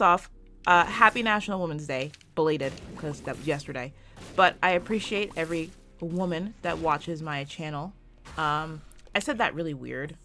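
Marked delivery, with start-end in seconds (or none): 6.0-6.5 "woman" oddly emphasized, set apart from the sentence; odd emphasis. Real, not acted. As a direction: lean weirdly on the word "woman". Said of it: "I said woman really weird".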